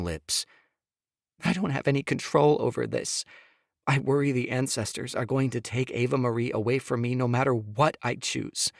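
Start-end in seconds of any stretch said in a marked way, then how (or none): 1.4-8.7 higher, pleading woman's voice; Sophia pleading. Acted. Wife begging husband to hear her, higher pleading. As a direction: plead with him, voice pitched up.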